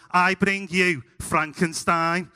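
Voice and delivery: slow, lightly acted child's stage line; mock-solemn nativity announcement; boy king in nativity. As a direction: proclaim it slowly like a kid on stage. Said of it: "faces the audience and goes".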